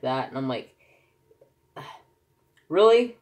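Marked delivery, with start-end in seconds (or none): 2.7-3.2 incredulous really. Retold or imitated. Disbelief at friend's message.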